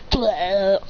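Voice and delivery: drawn-out spluttering bleh; hammed-up wounded noise; mock stabbed groan. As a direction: imitate a stabbed hero spitting blood. Imitates being stabbed.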